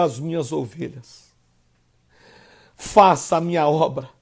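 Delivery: soft, low, gentle commission; softly voiced Jesus; tender Jesus. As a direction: send him out gently.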